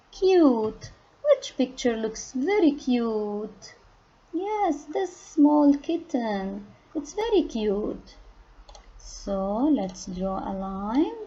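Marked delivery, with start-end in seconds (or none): 4.3-8.1 cooing. Acted. Cooing at a kitten picture.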